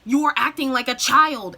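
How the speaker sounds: mock tantrum of denial, hammering each phrase; White Diamond. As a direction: imitate an emphatic, scolding refusal. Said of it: "in her fit of denial".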